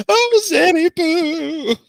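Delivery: high, slow, loud fond call. Acted. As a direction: sing out the pet name loudly. Calling out fondly.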